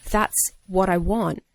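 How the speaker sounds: slow, deliberate verdict; awed director. Retold or imitated. Director floored by the actor's new take, slow and awed. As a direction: let each word land slowly, as if stunned.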